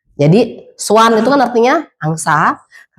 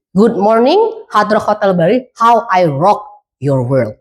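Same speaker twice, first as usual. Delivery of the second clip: hotel phone greeting; slower than usual. Shown as a demonstration. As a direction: answer the phone with a drawn-out, dropping finish. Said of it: "Cara mereka ngangkat telepon adalah". (sapaan telepon hotel, ujungnya pelan dan rendah)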